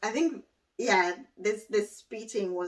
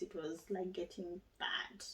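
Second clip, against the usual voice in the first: whispered; 2 semitones lower, 13 dB quieter than usual. Real, not acted. Whispered aside on worsening nausea.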